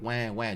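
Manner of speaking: small, low-key mock "wah, wah"; normal kid cry, imitated. Contrasting an ordinary kid's cry with distress, half-hearted mock crying. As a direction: toss off a token pretend cry. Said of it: "It wasn't a normal kid cry".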